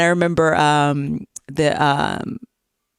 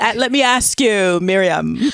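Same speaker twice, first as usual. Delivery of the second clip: Barbara Walters interviewer voice; slower than usual. Pretend. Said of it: "put on my Barbara Walters Oprah Winfrey hat".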